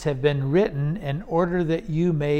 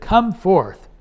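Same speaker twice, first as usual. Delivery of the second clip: louder, emphatic call, short of shouting; quoted loud command; 3 semitones higher, 5 dB louder than usual. Retold or imitated. Preacher quotes Jesus commanding Lazarus, moderately raised voice. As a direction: call out the command with some force. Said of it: "he said with a loud voice".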